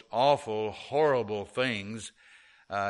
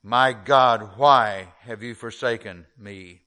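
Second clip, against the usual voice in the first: anguished cry; 2 semitones lower, 6 dB louder than usual. Acted. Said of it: "he cried out".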